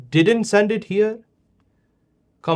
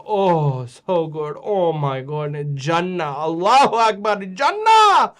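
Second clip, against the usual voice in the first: imitating kids' delight; 5 dB louder than usual. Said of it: "The way you talked about the apple is like".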